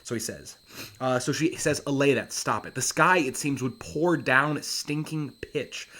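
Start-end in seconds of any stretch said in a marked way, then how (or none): 1.8-5.9 pleading Miranda. Acted. Reading Miranda's plea.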